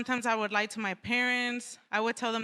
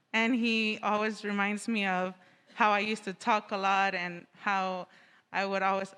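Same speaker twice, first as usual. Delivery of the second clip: muffled through a face mask. Real, not acted. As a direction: speak with a mask over your mouth. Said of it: "let me take off my mask so I can hear me better".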